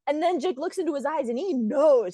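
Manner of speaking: ordinary talk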